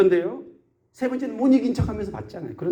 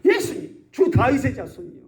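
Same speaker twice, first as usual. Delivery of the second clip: acted cry for mercy, pitched up; mock crying out; 4 semitones higher than usual. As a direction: call out to someone far away, pleading. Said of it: "소리를 지르는 거예요".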